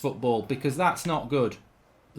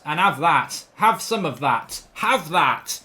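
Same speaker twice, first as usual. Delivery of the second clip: gloating; 4 dB louder, slower than usual. Real, not acted. Gloating after a goal.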